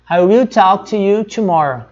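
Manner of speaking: careful, slightly slow I will unreduced; slow, full form. Shown as a demonstration. Teacher showing students the full form, slow and careful. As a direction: say "I will" as two full words, slowly. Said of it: "eles vão contrair isso aqui".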